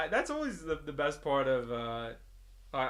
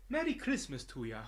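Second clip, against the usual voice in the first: put-on Canadian accent; 3 semitones higher than usual. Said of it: "He's a Canadian".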